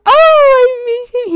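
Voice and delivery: high, slow, breaking with tears; tearful longing. Real, not acted. Streamer missing her dog, high tearful coo. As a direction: ache for the dog you miss.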